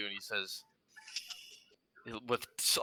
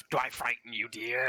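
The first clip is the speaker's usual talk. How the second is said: mock sinister purr. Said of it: "kinda, like, cackling".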